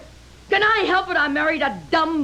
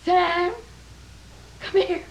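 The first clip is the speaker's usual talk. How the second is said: calling out; 4 semitones higher, much slower than usual. Acted. Wife calls husband from another room.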